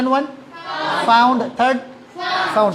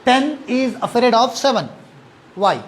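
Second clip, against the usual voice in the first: slow riddle; much slower than usual. Shown as a demonstration. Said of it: "I am repeating the question".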